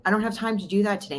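rattled off quickly; fast repeated excuse. Retold or imitated. To a friend, repeating the excuse fast. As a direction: fire off the same excuse in a rush.

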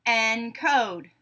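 "Encode" split in two, en-code; syllable by syllable. Shown as a demonstration. Teacher giving a word to blend, said syllable by syllable. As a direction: say "Encode" as two separate beats. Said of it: "say the syllables in a word".

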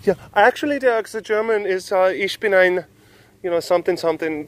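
high-pitched know-it-all correction; pedantic corrector. Retold or imitated. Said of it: "someone's gonna go in there".

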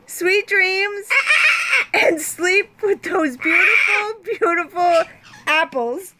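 retake broken up by giggles; laughing. Real, not acted. Second take of the goodnight line, laughing through it. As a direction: try to say it straight but keep laughing. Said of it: "Should I say it again?".

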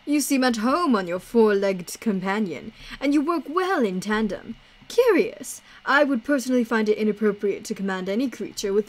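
lightly voiced courteous showman; theatrical game character. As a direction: read it as a grand, courtly companion. Voices Idris's game dialogue.

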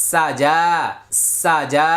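সা যা with short সা, long যা and no y sound; silent ya, long vowel. Shown as a demonstration. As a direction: hold the vowel of যা, leaving ya silent. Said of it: "এই ইয়াটা উচ্চারণে আসবে না".

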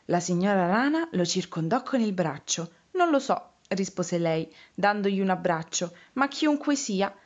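put-on lively storytelling for small children; story narration. Reading a picture book about frogs and a lost hat, storytelling voice. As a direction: read the tale expressively, giving each figure a lift.

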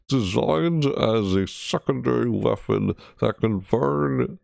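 slow, drawn-out announcer read; put-on reading voice. Shown as a demonstration. Streamer reading weapon text aloud, slow mock-announcer voice. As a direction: read the blurb slowly like a game trailer. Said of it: "as I'm talking like that".

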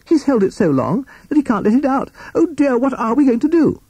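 put-on high fussy old sea captain; high-pitched worried captain; Captain Beaky. A narrator's reading. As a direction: squeak it out in a high flustered voice. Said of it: "said Captain Beaky".

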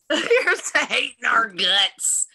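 slow, laughing through it; laughing catchphrase. Acted. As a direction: chuckle out the catchphrase slowly.

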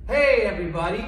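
excited shouted game signal; yelled call. Acted. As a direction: shout so the kids freeze. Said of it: "I'm gonna yell out".

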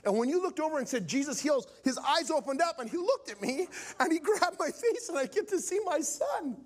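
high, emotional retelling of a miracle; overwhelmed testimony. Retold or imitated. Son telling the preacher of dad's healing, overwhelmed. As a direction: let the voice climb as the wonder builds.

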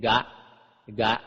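short "กะ" blending g with ng, voiced; Magadhi letter sound. Shown as a demonstration. Teacher demonstrates Pali letters to readers, voiced "กะ". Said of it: "ออกเสียงกอไก่กล้ำงองูเป็น".

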